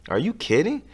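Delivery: disbelief. Acted. Carl disbelieving.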